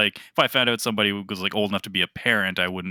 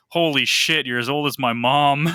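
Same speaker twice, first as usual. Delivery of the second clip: mock shock; 5 semitones higher, 4 dB louder than usual.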